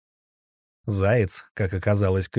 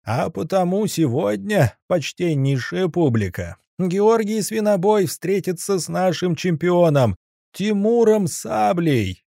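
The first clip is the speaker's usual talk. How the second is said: booming ring announcer; 8 semitones higher than usual. Acted. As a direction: call it out to the whole arena. Ringmaster announcing next fight.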